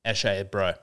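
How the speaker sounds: low, street-lad Australian eshay voice; eshay accent. Acted. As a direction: drop into an eshay bro accent. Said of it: "still comes out a little bit".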